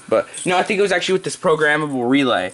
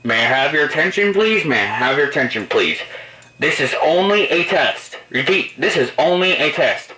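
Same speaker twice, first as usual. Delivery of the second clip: paging over the fire panel mic; over a PA system. Shown as a demonstration. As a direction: announce it through the building speakers. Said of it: "You can interrupt them with a message".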